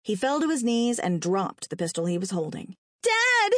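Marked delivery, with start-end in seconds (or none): 3.0-3.5 put-on very high, loud boy's howl; high-pitched anguished cry. A narrator's reading. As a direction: howl out for your father in horror. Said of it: "Terry howled".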